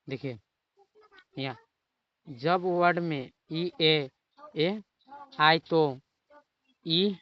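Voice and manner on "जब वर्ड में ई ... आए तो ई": slow, louder spelling-out of ई ए; teacher hammering ई ए; stressed teaching. Shown as a demonstration. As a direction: drill the rule with weight on each letter. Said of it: "ई उच्चारण करते हैं".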